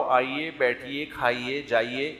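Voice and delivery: polite, softened invitations; soft, well-mannered hosting tone; courteous. Acted. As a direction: gently offer each word with respect. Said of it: "اس طرح سے تمیز سے بات".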